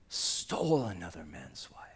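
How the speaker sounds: low grave charge. Acted. Nathan confronting David.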